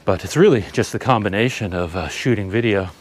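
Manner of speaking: breathing hard while talking. Real, not acted. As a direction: talk between heavy breaths. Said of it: "I wouldn't be breathing this hard".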